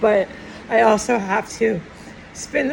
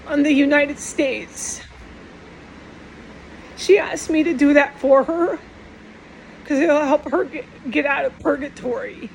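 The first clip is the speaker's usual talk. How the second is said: real tears rising, a little higher-pitched; starting to cry; 3 semitones higher than usual. Real, not acted. Telling viewers about her mother's last wish, on the edge of tears. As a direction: hold back tears as you speak. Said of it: "I'm, I'm starting to cry".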